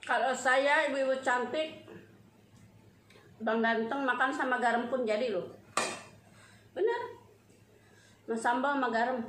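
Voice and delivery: speaking between bites; talking while chewing. Real, not acted. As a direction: mouth partly full of food. Seen 2: Puts food in mouth earlier; cheeks and lips chew between words.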